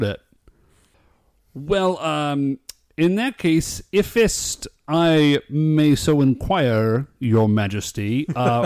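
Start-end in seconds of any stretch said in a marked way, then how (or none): 3.9-8.3 lightly put-on courtly speech, slow and deferential; a hint of slow, ceremonious Shakespearean petitioner; old-time royal courtier. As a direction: address a king in mock olde-timey English, drawn out. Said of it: "That's how you have to talk".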